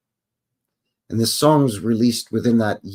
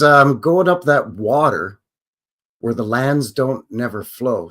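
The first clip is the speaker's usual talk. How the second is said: slow imitation of the singer; 3 dB louder, slower than usual. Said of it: "But he says".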